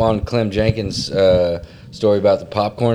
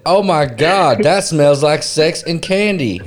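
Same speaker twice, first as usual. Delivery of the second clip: mock delight; 5 semitones higher, slower than usual. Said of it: "I would've said".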